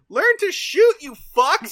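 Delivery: high, loud comic berating; hammed-up screaming insult; mock-angry shout. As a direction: yell abuse like a furious coach. Mirror Genie berating the A-Team.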